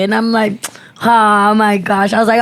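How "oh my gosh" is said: slow, drawn-out fake sympathy; mock concern. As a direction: draw it out as if shocked.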